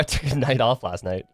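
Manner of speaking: ordinary talk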